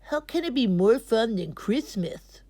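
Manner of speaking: whispered question, no voice. A narrator's reading. Boy at lunch whispers to his friends, whispering.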